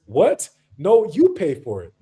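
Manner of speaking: a touch of acted disbelief, then pushing it back; mock indignant refusal. African man throws the bill back at his date, mildly indignant. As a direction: lightly imitate an affronted man arguing.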